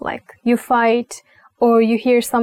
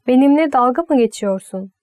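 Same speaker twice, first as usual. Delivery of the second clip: angry; faster than usual. Shown as a demonstration. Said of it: "it's angry, yes".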